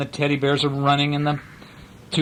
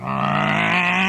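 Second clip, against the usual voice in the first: imitated engine noise. A narrator's reading. Voices the big engine's noise.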